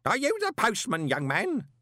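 high, loud bellow. A narrator's reading. Old man bellowing at Moist from an inch away, loud. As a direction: bellow it right in his face.

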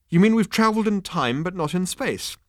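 high, loud, eager question; bright. A narrator's reading. Arthur works out the time travel, brightly. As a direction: ask it with bright realisation. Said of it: "said Arthur brightly".

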